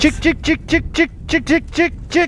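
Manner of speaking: high sing-song chick call; calling chickens. Real, not acted.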